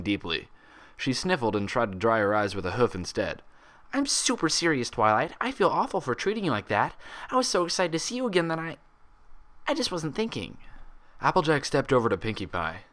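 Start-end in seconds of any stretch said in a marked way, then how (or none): 3.9-10.6 high, fast tearful apology; tearful earnest. A narrator's reading. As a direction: sniffle through the apology.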